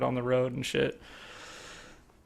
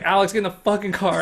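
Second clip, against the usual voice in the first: retold yell; 6 semitones higher, faster than usual. Yelling at friend to leave.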